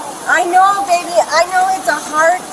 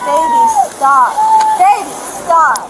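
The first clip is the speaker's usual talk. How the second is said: urgent plea; 4 dB louder, slower than usual. Real, not acted. Pleading with upset girlfriend.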